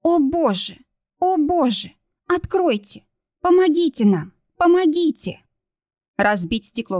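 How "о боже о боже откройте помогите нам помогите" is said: high, panicked calls for help; panicked cry for help. A narrator's reading. Kristina cries for help in panic, high and strained. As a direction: scream for help in terror.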